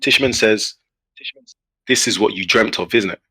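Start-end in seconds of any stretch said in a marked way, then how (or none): 1.9-3.2 measured English accent, imitating a friend; perfect English accent. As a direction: deliver it in a flawless English accent. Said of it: "in an English accent, the perfect English accent".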